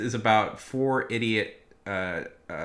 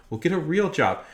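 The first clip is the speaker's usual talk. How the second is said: mock customer sneer; 8 semitones higher, 6 dB louder than usual. Mocking a dismissive customer.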